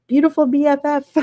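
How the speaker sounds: a playful imitation of a friend gushing. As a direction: gush it like a doting friend. Reading out a friend's gushing message.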